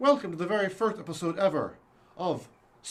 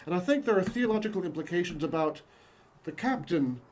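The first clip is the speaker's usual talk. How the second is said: bad stage Irish accent. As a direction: ham up an Irish lilt. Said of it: "do not do good, uh, Irish accents".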